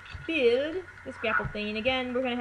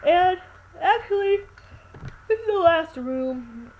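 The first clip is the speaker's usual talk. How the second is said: sudden loud burst; 7 semitones higher, 6 dB louder, slower than usual. Real, not acted.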